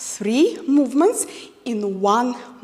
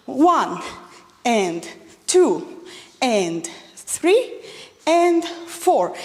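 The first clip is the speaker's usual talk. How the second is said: counting beats for a wrong demo; much slower than usual. Shown as a demonstration. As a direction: count through the faulty version. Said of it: "not going to make any preparations".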